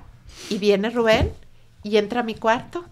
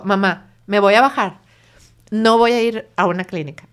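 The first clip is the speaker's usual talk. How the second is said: louder, emphatic retold refusal; firm refusal; 7 dB louder than usual. Son telling his mother he won't go to a clinic, defiant. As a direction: dig in and refuse, retelling it.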